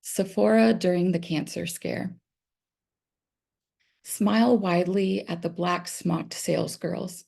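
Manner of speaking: measured reading with pauses at line breaks; careful, evenly paced recital of verse; poetry reading. Acted. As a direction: read your poem aloud, phrase by phrase. Reads own poem aloud.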